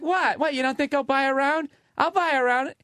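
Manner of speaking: high, defensive mock voice; piercing caught stripper. Stripper caught out, high defensive mock voice. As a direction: squeal it out indignant. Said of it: "had a voice that literally could break the glass".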